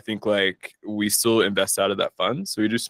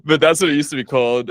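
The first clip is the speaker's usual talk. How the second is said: embarrassed laugh; 7 semitones higher, faster than usual. Real, not acted. Embarrassed about bad name.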